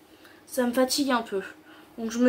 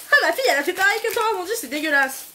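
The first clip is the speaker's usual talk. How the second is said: high, loud and fast, outraged parent; 6 semitones higher, 3 dB louder, faster than usual. Retold or imitated. Parent complaining in the comments, fast and outraged. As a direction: play the horrified parent complaining. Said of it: "Je veux aucun parent".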